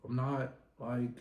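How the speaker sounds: loosely imitated British bloke accent; amateur British accent. Recapping Charlie telling his rival to calm down, amateur British accent. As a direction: try a rough, casual British accent. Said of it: "My accent probably ain't even that good".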